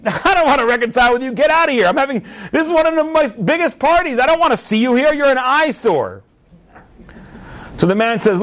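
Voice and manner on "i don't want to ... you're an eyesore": higher, acted-out angry host; indignant rejection. Host rejecting his enemy's olive branch, indignant. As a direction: throw the peace offer back with scorn.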